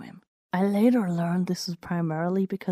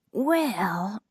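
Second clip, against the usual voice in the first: slow rising drawn-out Well; 3 semitones higher than usual. Acted. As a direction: stretch the word Well long with a rising end. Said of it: "dragging out the word as best I could".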